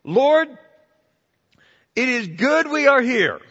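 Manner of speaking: high, loud eager outburst; Peter's eager words. Retold or imitated. Preacher voicing Peter blurting to Jesus, high and eager. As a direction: blurt it out like Peter just waking. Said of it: "And Peter said to Jesus".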